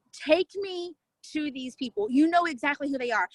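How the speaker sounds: insistent prayer, stretching the first words; retold pleading prayer. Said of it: "and I prayed".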